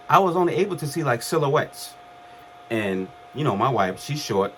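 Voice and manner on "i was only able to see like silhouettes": laughing through a quick retelling. Real, not acted. Laughing at himself while retelling waking from the coma. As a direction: chuckle as the line is said again.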